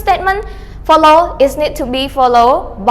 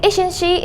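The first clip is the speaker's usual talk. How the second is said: "isn't she" starting higher, then going down; falling intonation; 4 semitones higher, 3 dB quieter than usual. Shown as a demonstration. Teacher explaining what the confirming tag means, falling intonation. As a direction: drop the pitch on "she" in "isn't she". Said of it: "intonation of question take goes down".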